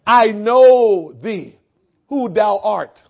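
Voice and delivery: low, soft, very slow demon murmur; a hint of an awed demon; lightly voiced demon. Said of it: "The demon says".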